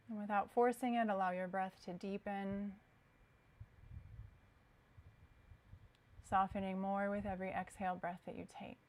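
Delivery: calm, unhurried yoga guidance with long pauses; guided meditation. Acted. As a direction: ease them into stillness, leaving space between phrases. Guides students into relaxation.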